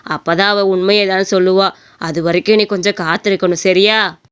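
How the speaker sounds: lightly voiced old father, calm and low; a hint of a patient old man advising the young man.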